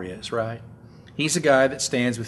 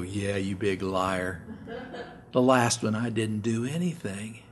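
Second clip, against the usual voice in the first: exhausted reply; 3 semitones lower, 5 dB quieter than usual. Retold or imitated. Lifter answering spotter, spent.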